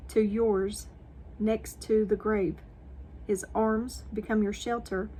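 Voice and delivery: solemn Bible read-aloud; devotional reading. Acted. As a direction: read it out deliberately, phrase by phrase, projecting. Reads scripture and devotional.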